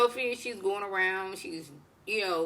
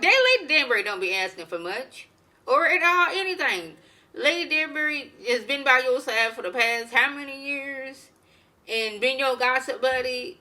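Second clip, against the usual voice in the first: indignant; 5 semitones higher, 4 dB louder than usual. Real, not acted. Indignant rant defending Lady Danbury.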